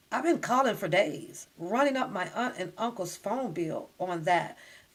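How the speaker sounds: ordinary delivery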